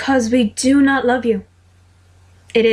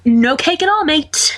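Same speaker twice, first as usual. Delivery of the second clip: louder, higher flat no; firm refusal; 5 semitones higher, 5 dB louder, slower than usual. Acted. James loudly refuses Sirius's naked cake stunt. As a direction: shut the idea down hard.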